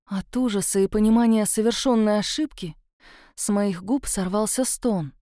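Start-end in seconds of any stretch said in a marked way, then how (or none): none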